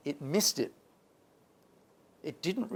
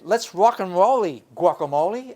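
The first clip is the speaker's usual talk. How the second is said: playful rhyming cheer; 5 semitones higher, 8 dB louder than usual. Retold or imitated. Quoting his message to app.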